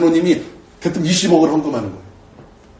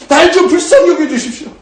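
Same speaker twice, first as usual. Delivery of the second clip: higher, louder, more desperate plea; anguished pleading; 9 semitones higher, 4 dB louder than usual. Retold or imitated. Pastor retelling his prayer to God, mock anguished crying out. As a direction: cry out the plea with rising urgency. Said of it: "벽을 치며 울었어요".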